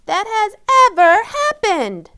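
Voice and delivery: Amy shouting about the playdate disaster. Acted. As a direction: cry out the disaster at full volume. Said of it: "shouted Amy".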